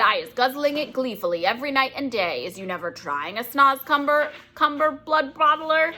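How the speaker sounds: gentle giant, coaxing, rising high on the name; coaxing BFG. Acted. BFG coaxes Bloodbottler to try it, friendly giant. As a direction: sweet-talk him into a bite.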